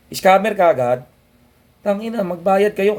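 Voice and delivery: heated scolding; angry rant. Real, not acted. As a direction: scold the critics hard. Ranting at critics.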